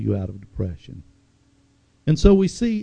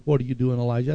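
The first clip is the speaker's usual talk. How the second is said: loving tone; much faster than usual. Shown as a demonstration. God gently asking Elijah in the cave, with love. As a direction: ask it with tender love. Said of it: "there was love in the tone of the other one".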